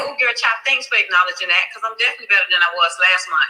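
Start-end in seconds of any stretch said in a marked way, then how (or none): none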